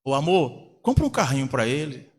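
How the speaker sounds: a touch of tender coaxing; coaxing mother. Acted. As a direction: lightly imitate a mother coaxing her husband. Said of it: "a mãe".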